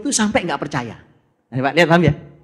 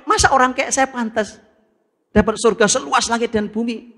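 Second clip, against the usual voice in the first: higher, amazed voice; unbelieving self-doubt; 6 semitones higher than usual. Acted. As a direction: sound too amazed to believe it. Unworthy man doubting his reward.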